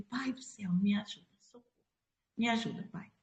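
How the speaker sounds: hushed retold prayer for help; frightened plea. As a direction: plead softly, recalling the terror. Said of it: "um pavor tão grande".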